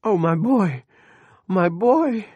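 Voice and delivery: high shrieking wail; a mother's horrified shriek; shrieking in anguish. A narrator's reading. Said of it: "shrieked when she saw".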